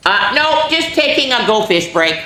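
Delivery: high, laughing, caught-out fib; high sheepish giggly answer; sheepish kid reply. Acted. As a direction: brush it off with a nervous laugh. Splat caught, answering guiltily.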